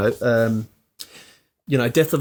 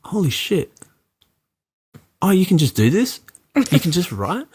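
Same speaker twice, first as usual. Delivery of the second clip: amazed; 5 semitones higher than usual. Retold or imitated. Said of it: "I went".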